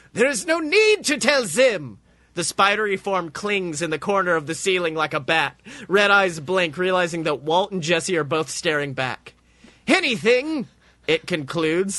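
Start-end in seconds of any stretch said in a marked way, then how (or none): 0.1-2.0 higher, slow grand pronouncement; majestic robot. A narrator's reading. Spider robot addressing Walt and Jesse, higher grand slow voice. 9.9-10.7 deflated majesty. A narrator's reading. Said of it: "majestic pronouncement somehow deflated".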